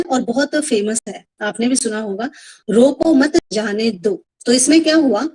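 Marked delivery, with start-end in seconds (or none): 2.7-4.2 slow "रोको मत", pause, then "जाने दो"; pause after मत. Shown as a demonstration. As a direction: break the phrase right after मत. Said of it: "मत के बाद कॉमा लगाइए".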